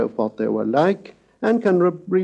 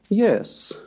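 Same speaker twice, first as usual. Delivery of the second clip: "yes" rising high in pitch; 7 semitones higher than usual. Shown as a demonstration. Lecturer demonstrating a rising tone. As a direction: ask "yes" with a big upward glide.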